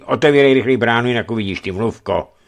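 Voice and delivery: loud, fast mock of the guard, mluvko mocked; mimicking the guard. Žarený mocking the gate guard, mimicking voice. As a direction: ape the guard's word mluvko back at him. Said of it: "napodobil pospěšně hlídače".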